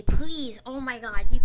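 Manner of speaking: loud pleading please, then oh my God; fed-up loud plea; exasperated outburst. Real, not acted. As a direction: blurt it out at chat. Exasperated at chat.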